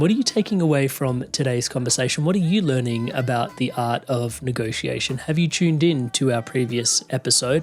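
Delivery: upbeat host read over music; podcast outro read. Acted. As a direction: invite the listeners in, bright and direct. Host outro call to listeners.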